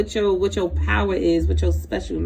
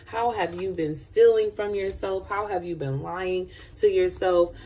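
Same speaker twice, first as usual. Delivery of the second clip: usual speaking voice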